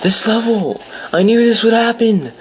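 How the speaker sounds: high frustrated outburst. Real, not acted. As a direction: vent your rage at the level. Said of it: "my frustrated voice".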